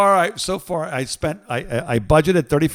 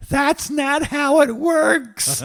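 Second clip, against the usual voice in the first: retold line; 11 semitones higher, 4 dB louder, much slower than usual. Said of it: "the friend's like".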